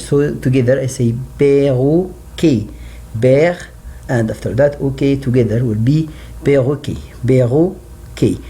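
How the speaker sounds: perroquet split into père and ok then joined; syllable breakdown. Shown as a demonstration. Teacher breaks perroquet into parts for pupils. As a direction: build perroquet from père plus ok. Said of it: "separate the word to part".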